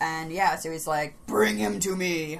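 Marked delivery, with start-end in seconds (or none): 1.2-2.4 rough, creaky dark-lord voice. Retelling the story of Turin, acting out Morgoth's command in Morgoth voice. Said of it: "that's the exact voice of Morgoth".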